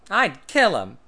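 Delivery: loud, high, firm threat; loud firm declaration. A narrator's reading. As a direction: say it flat out, no doubt. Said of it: "he answered firmly".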